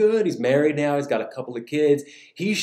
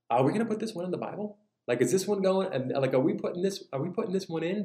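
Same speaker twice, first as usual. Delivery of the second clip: softer, higher questioning aside; doubtful disciples; 4 semitones higher, 4 dB quieter, faster than usual. Acted. Disciples hearing the parable, doubtful. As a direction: query it under your breath, dubious.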